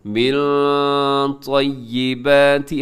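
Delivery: मिन with its n drawn into a nasal hum; ikhfa. Shown as a demonstration. Teacher repeating the example for students, ikhfa on मिन. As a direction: linger on the hidden n of "मिन" before "तय्यिबाति". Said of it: "इख्फा के हवाले से".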